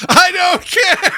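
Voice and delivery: mock Tommy Lee Jones, dragged out and called. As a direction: call it out slow like a distant marshal. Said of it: "Tommy Lee Jones is all the way".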